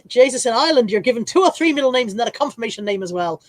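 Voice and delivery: badly faked Irish accent; terrible Irish accent. Reading out an Irish listener's message, bad Irish accent. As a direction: read it out in a clumsy mock Irish accent. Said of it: "That was a terrible Irish accent".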